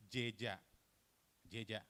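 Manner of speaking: jeja with a full e, jay-ja; written form. Shown as a demonstration. Presenter shows word as spelled, full e. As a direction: sound the e fully in jeja. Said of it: "the vowel which is not pronounced".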